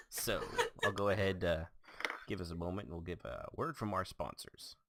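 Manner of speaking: ordinary talk, nothing marked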